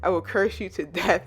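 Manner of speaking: fast, mock threatening rant; retold berserk threat. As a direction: rattle off a hammed-up curse at spirits. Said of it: "goes berserk".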